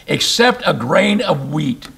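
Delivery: "Except" stressed, slow; drawn-out scripture emphasis; slow emphatic reading. Shown as a demonstration. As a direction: lean on "Except", slowly. Preacher re-reads verse slowly.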